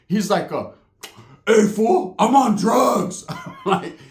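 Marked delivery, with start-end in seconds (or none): 1.5-3.3 high, drawn-out mock shout; acted outburst. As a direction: yell it like a wild homeboy, stretching the end. Acting out the homeboy's outburst.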